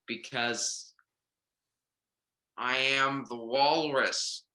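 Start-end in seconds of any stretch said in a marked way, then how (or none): 2.6-4.4 walrus voice. Acted. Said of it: "work on that walrus impression".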